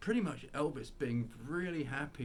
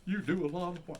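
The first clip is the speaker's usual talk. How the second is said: high cartoon Texan old man; Mister Arnold; 9 semitones higher than usual. Old man complains to boys about his tool shed, cartoon impression. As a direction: pitch it up like the neighbor Hank Hill grew from. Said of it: "It was Mister Arnold".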